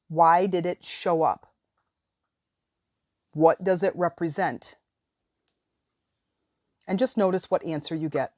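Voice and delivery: measured guiding voice with long pauses; guided visualization. Real, not acted. Coach guiding listeners to release a limiting belief, guided meditation voice. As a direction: lead them step by step, leaving room after each prompt.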